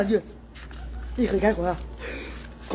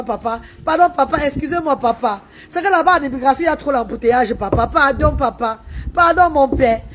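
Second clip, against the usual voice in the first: mock pleading. Begging the officer for a visa.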